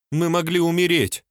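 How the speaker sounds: almost whimpering. A narrator's reading. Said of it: "почти проскулила она".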